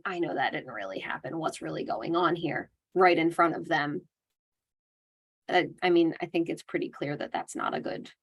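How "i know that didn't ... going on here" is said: softer, flat brushing-off; dismissive correction. Shown as a demonstration. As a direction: correct them coolly and quietly. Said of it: "And then we're saying".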